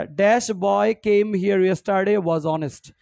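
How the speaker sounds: very slow, word by word; slow dictation. Shown as a demonstration. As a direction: dictate the exercise slowly. Teacher reading exercise sentence slowly. (ধীরে ধীরে শ্রুতলিপি)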